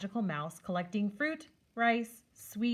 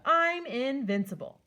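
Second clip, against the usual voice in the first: put-on high, loud, proud kid voice; child god brushing off a warning; boastful young god; 4 semitones higher, 4 dB louder than usual. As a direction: brag like an invincible little god. Ganesha boasts to Mouse.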